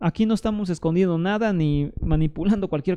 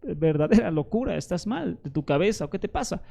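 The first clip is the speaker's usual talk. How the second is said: softer, hushed voice of a doubting listener; lightly voiced scoffing listener, dropping off softer; imagined objector; 4 dB quieter than usual. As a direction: mutter the skeptic's protest, fading away. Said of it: "y dices".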